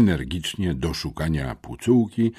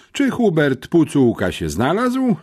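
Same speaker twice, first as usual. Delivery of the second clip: impatient; 9 semitones higher, 4 dB louder than usual. A narrator's reading. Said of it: "zapytała zniecierpliwiona".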